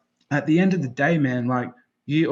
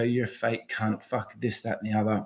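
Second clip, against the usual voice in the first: low, much softer throwaway scorn; imitated dismissal; 6 semitones lower, 7 dB quieter than usual. Onlooker judging someone's post about feeling down, quietly dismissive. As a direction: toss it off under the voice.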